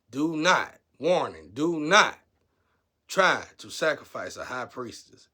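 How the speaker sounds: shouted stern warning, slowing at the end; loud warning. Real, not acted. Warning viewers not to sacrifice a priestess, shouted. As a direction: call out the warning like an alarm.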